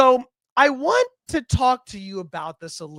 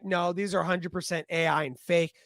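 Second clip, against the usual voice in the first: quick, softer dismissal; brisk mock skepticism; imitated skeptic; 3 semitones lower, 6 dB quieter, faster than usual. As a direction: play the unimpressed doubter, rattled off. Imagined skeptic dismissing the photos.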